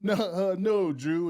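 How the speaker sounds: loud, high mock coach refusal; flustered coach. Coach to little girl tapping his head, loud imitated refusal. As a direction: imitate a coach cutting a kid off, loudly. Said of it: "and he goes".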